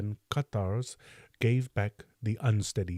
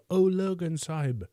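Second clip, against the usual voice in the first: higher, stretched second call with the O; calling again; 8 semitones higher than usual. A narrator's reading. Kim calls his master a second time, higher and more pleading. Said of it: "lifted up his voice and called aloud".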